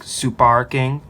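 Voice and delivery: put-on slow Super King in a light Japanese accent; Super King said slowly, Japanese-accented like sparking. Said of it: "if you hear someone say it in a Japanese accent".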